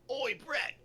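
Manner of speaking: loud, high mock hail; acted-out holler of hello; shouted greeting. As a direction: call out to a mate across the room. Voicing chat greeting called out.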